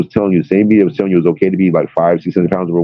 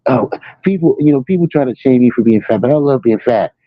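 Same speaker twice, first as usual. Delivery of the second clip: mocking fat influencer; 6 semitones higher than usual. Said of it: "clips of these fat influencers going".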